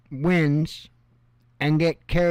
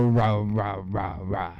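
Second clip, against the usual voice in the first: mock rah-rah chant; 7 semitones lower, 4 dB quieter, slower than usual. Shown as a demonstration. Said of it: "maybe without the rah, rah, rah".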